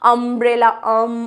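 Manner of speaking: अम्ब्रेला cut back to अम, "um"; teacherly breakdown of अम्ब्रेला to अम; sounding out onset. Shown as a demonstration. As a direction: isolate the short vowel starting अम्ब्रेला. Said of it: "अ की sound आ रही थी".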